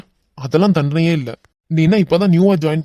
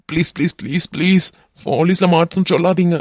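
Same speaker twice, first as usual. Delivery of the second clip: quick run of pleas, rising; begging; 3 semitones higher than usual. Acted. Captive man begging not to call police, begging. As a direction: plead over and over.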